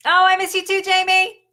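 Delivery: high, loud affectionate call; excited fond shout. Real, not acted. Host answers Jamie saying she misses her, excited and loud. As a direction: sing out a big excited hello. Calls back fondly to a viewer.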